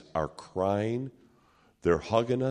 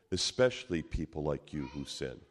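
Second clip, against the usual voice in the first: sincere quiet reply; 6 semitones lower, 6 dB quieter than usual. Retold or imitated. Miguel answers gently and earnestly.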